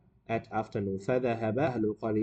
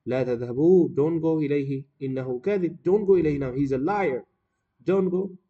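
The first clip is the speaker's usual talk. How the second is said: louder, emphatic warning in character; insistent villagers; 3 semitones higher, 6 dB louder, faster than usual. Acted. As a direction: play villagers urging each other to stay. Villagers refuse the shepherd's call.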